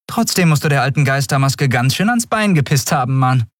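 a street kid mocking a stranger; cheeky child Orin. A narrator's reading.

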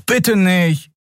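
put-on young Miko pleading with Nelen. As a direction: beg her, desperate. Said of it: "flehte Miko".

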